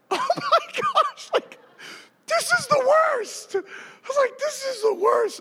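very high, drawn-out wail; mock agony. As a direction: wail in comic pain. Acts out agony on the ground.

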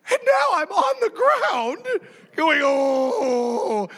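very high wailing groan; hammed-up pain. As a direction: wail as if just kicked. Acts out groaning after being kicked.

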